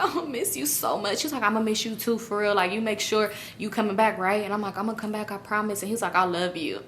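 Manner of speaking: soft, hushed lovers' farewell; quietly affectionate, understated; tender goodbye. Retold or imitated. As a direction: murmur it gently, retelling a goodbye. Retold tender goodbye between lovers.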